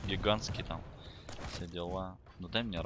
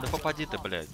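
frustrated yell; 7 semitones higher than usual. Real, not acted. Yelling at the game.

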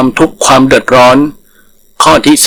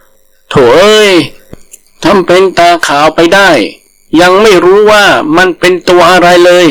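higher, teasing scorn; mocking langur; 4 semitones higher than usual. Langur scoffing at the frightened tiger, higher teasing. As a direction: laugh off a coward friend.

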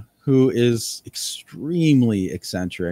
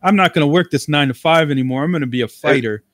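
excited; 3 semitones higher, 4 dB louder than usual. Retold or imitated. Imitating eager wannabe fighter.

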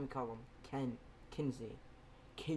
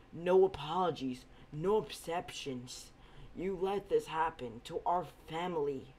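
bitter refusal; 4 semitones higher, 5 dB louder than usual. Acted. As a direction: throw the apology back at him. Izuku refuses uncle's apology.

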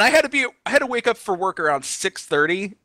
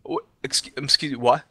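incredulous; 4 semitones lower, 4 dB quieter than usual. Retold or imitated. Stunned at agent's refusal.

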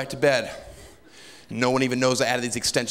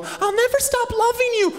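very high, loud swooning plea; melodramatic princess; 4 dB louder than usual. Retold or imitated. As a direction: cry it out like a falling movie heroine. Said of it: "she's looking up at me going".

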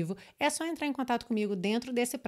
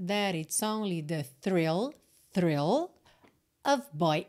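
slow linking demo; 3 semitones lower, slower than usual. Shown as a demonstration. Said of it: "juntou com rarara".

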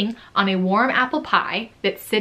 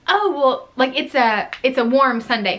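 patient explaining; 4 semitones higher than usual. Retold or imitated. Explaining to the customer.

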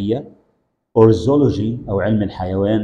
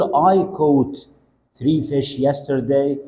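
slow model phrase; 3 semitones higher, much slower than usual. Shown as a demonstration. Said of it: "teacher models slowly".

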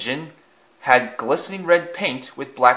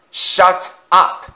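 higher, louder bark; angry bark; 7 semitones higher, 6 dB louder than usual. A narrator's reading. Afton yelling at the wailing coaches, angry bark. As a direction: bark it back harder. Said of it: "Afton barked back".

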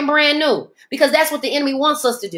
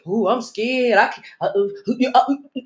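mock scared; 3 semitones lower than usual. Mocking fearful believer.

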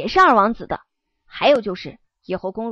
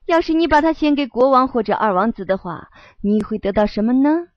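sly tempting devil voice. Acted. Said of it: "我用魔鬼的声音对他说道".

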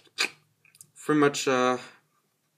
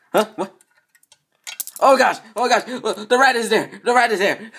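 loud, higher shocked cry; startled; 7 semitones higher, 5 dB louder than usual. Acted. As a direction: jump back at the sight. Startled by rat.

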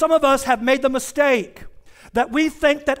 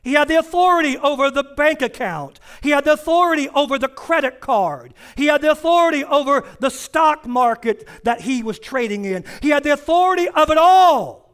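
preaching cadence. Acted. Pastor building a point to the congregation, preaching. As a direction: preach it, stacking each line.

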